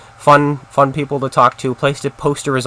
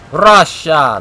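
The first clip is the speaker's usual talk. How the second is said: excited callout; 5 semitones higher, 8 dB louder than usual. Real, not acted. Calling out an enemy tank.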